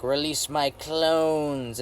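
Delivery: very slow, drawn-out mock-villain order; villain command. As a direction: stretch each word like a hammy villain. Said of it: "There's this part where he's like".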